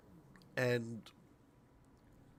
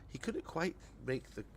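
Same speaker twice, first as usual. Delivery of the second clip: laughing stumble; 3 semitones higher, 3 dB louder than usual. Real, not acted. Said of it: "I don't know what I'm saying".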